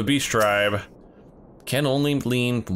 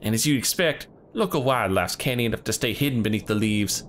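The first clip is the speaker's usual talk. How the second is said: put-on hunter leader in a southern accent; rough hunter greeting visitors in a southern accent; 5 semitones higher than usual.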